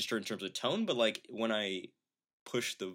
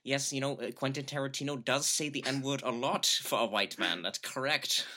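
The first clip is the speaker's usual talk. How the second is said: lightly voiced German-accented interviewee; Christoph Waltz; 3 semitones higher than usual. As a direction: answer matter-of-factly with a slight German accent. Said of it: "or you could hear him say".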